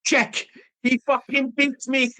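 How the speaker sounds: hammed-up Russian accent, pitched high; John Malkovich Russian accent. Film fan quoting Rounders in a mock Russian accent. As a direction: do an over-the-top bad Russian accent. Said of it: "John Malkovich is shit in the bed in Rounders with his Russian accent".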